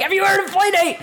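bright mock street reporter voice; playing a TV street interviewer, lightly hammed. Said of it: "we're like".

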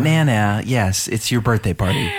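lightly voiced feisty grandmother; a creaky old Nana demanding her due; old grandma. Granddaughter's Nana at her ninetieth, feisty old lady.

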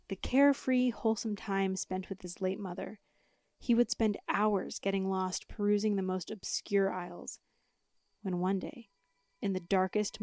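lightly dramatic storyteller; spooky story narration. Acted. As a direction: tell it like a campfire tale. Reads spooky story with music.

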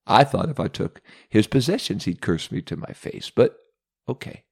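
laughing, then dropping to a whisper; a scheming devil muttering to himself; sly Satan aside. Acted. Satan muses to himself in a sly, scheming whisper.

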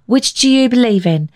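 put-on high, eager little-boy question; a small boy asking his grandpa; high child's voice. Billy asks grandfather.

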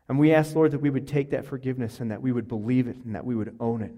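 earnest pastor's prayer, swelling on each address; closing prayer. Acted. Pastor leads the congregation in prayer, earnest. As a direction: pray over the congregation with conviction.

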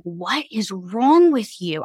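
drawn-out, emphatic "what is wrong with you"; retold bafflement, slowly stressed; exasperated husband. Husband asking his hysterically crying wife, exasperated. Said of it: "my husband was like".

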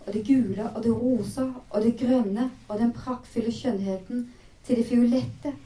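reading a novel aloud, measured and even; story narration. Acted. Presenter reading the book excerpt to listeners, storytelling voice. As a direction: tell the scene as a storyteller.

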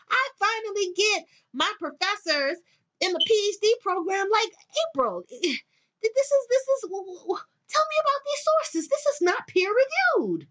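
mock academic outrage.

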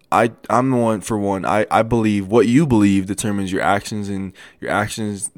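stumbling over restarts; stuttering a little. Real, not acted. Podcaster fumbling a point about belief, stuttering a little. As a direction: trip slightly over your words. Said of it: "I'm stuttering a little bit".

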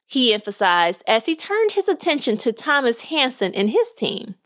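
lively storyteller reading a podcast tale; measured read-aloud narration; story narration. Acted. Reads a short story aloud.

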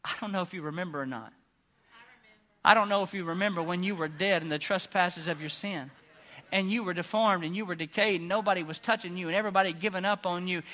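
soft, low, confiding murmur; quiet intimate sermon aside; hushed preacher. Real, not acted. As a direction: drop right down to draw them in.

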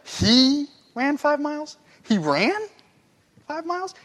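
stunned and laughing at the idea; amazed disbelief. Shown as a demonstration. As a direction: stretch "five", then a big rise on "miles". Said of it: "You'd be like".

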